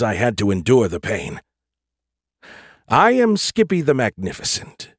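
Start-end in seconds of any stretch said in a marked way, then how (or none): 2.9-4.9 high, proud and insistent. Acted. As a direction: proclaim it grandly. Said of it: "he insisted, undaunted".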